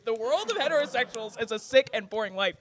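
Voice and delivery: soft, quick recital; reciting quote. Shown as a demonstration. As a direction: read it like a motto. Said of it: "I want that tattooed".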